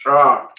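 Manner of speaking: sharp pained ah from the burn; pained gasp. Real, not acted. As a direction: gasp at the burning. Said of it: "my mouth is burning".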